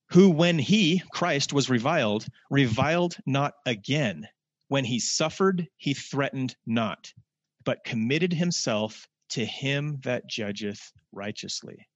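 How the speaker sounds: slow, solemn reading, lifting at the start; scripture reading. Acted. Preacher reading Peter to the congregation, slow and solemn. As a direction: let the verse unfold slowly.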